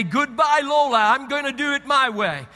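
defiant farewell. Retold or imitated. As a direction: brush off the sat-nav with bravado. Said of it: "I say".

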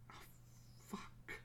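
hushed, sinking curse; dismayed undertone. Acted. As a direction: let it out under your breath. Dread when call is answered.

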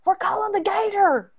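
imitating a maintenance lady, high and matter-of-fact; high Louisiana coworker voice; high southern lady. Maintenance lady explaining to Rachel, high southern voice. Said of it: "And they're like".

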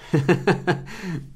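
short real chuckle after the line; soft chuckle trailing off; light laugh. Real, not acted. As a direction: let a small laugh out. Laughs after acting the reply.

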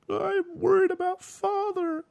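put-on very high, slow little girl voice; mock child voice. Retelling the film, mimicking the worried child. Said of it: "And she goes".

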